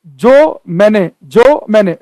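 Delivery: जो मैंने said slowly, with a gap after जो; words spaced apart. Shown as a demonstration. Teacher shows the gap between words, spaced apart. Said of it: "के बीच में zero point one second का gap".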